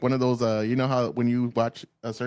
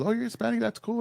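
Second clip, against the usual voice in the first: mimicking a girl; 10 semitones higher than usual. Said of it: "And then she goes".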